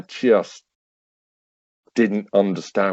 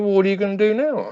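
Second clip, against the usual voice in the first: wife's quick question; 11 semitones higher, much faster than usual. Retold or imitated. Wife quizzing him outside.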